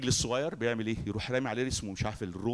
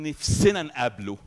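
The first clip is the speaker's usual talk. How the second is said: voicing the crowd, pushed out louder; louder demanding quote; 7 dB louder than usual. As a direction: insist like an eager crowd. People quoted demanding to meet God.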